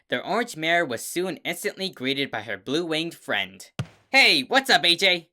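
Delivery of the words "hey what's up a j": loud, high, cheerful hail; loud surprise greeting from behind. Acted. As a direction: call out to startle a friend. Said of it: "Rainbow loudly greeted her".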